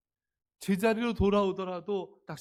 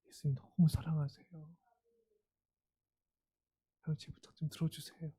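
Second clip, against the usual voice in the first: warm pleading; 4 dB quieter than usual. Shown as a demonstration. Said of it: "우리는 계속 따뜻하게".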